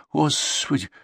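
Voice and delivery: high, drawn-out wail of dismay; slow, swooping "oh woe" moan; sighing and moaning lament. A narrator's reading. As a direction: lament it like a village woman. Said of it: "Завздыхала, заохала".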